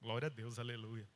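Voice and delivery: low, soft, half-hearted praise; dumbfounded. Retold or imitated. Husband standing foolish beside his fallen wife, sheepish and dumbfounded. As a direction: mumble it like a stunned fool. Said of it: "aquela cara de tolo, né? Tipo assim".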